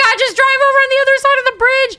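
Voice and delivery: high, loud frightened squeal; panicked kid. Retold or imitated. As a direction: shriek it like a scared kid. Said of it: "be like".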